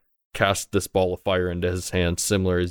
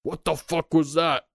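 high, drawn-out mock shout; shouted guard's call without real volume; distant guard shouting; 9 semitones higher, slower than usual. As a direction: call out like an alarmed guard from afar. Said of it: "they begin shouting".

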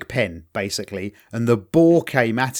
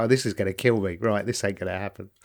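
softer, lower muttered realisation; resigned dread; 6 semitones lower, 7 dB quieter, faster than usual. Retold or imitated. Soldier facing the charging boar, soft low resigned mutter. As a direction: mutter it like he knows he's done for. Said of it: "He's like".

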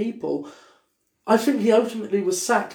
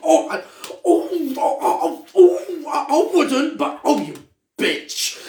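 camp friend; 8 semitones higher, slower than usual. Retold or imitated. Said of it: "He went".

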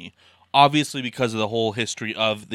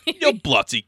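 put-on failed Australian accent; 4 dB louder, slower than usual. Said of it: "that was British".

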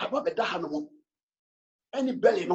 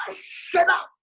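higher, firmer "I shut up"; raised quote; 8 semitones higher, slower than usual. Retold or imitated. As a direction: pitch "I shut up" up high, calling it out. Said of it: "And I was saying".

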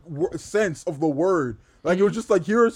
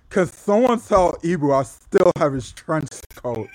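Ricky Starks voice. Retold or imitated. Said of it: "you don't just do the voice, like, you put the lisp on it as well".

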